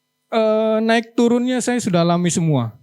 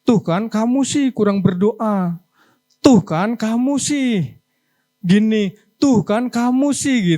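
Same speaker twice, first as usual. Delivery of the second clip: nagging wife; slower than usual. Retold or imitated. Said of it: "istri kita bilang apa".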